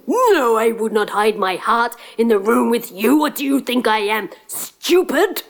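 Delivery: sneering at the prince; scornful giant. Acted. Giant scoffing.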